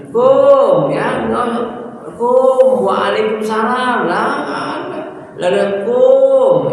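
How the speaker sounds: high, loud scoffing mimicry; mocking clipped greeting. Shown as a demonstration. Teacher mocks a lazy "Alaikum", loud and scoffing. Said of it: "mocking clipped reply".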